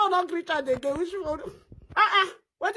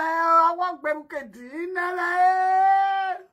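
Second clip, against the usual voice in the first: drawn-out mock wail; much slower than usual. Faking grief for a dead brother, stretched-out mock wail. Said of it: "I dey help you cry".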